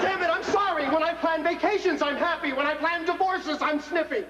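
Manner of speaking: irritated, testy retort; snippy. Acted. Husband retorting to wife about planning divorces, snippy. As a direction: snap back, fed up. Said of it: "You don't have to get snippy".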